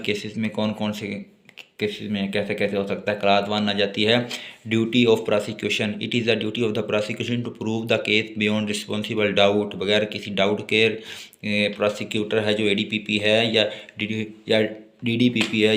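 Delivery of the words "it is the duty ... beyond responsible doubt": reads the statute slowly, word by word; slow dictation. Acted. Teacher slowly dictating law text to note-taking students. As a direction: dictate it so students can write.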